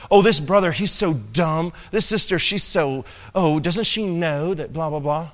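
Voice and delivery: snide churchgoer gossip, lightly voiced; mocking gossip. Congregation member gossiping about brethren, mild mock sneer. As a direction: sneer at a fellow member, half-hearted. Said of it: "we speak so evil amongst each other".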